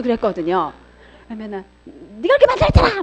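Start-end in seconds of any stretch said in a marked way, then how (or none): 1.8-3.0 higher mock yell at the kids; a hint of a furious mom snapping at her child; retold angry yell. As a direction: replay the mother's blaming yell, hammed-up. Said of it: "막 소리도 지르고".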